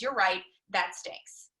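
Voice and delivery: slow, spelled-out demonstration; slow deliberate model line. Shown as a demonstration. Teaching husband the line, slowly and deliberately. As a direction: say it slowly as the exact script. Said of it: "All I need you to say is".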